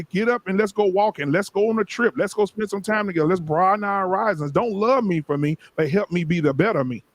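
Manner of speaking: preaching. Acted. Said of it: "You preaching there".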